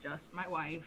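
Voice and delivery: put-on old man voice. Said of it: "I'm losing my old man voice".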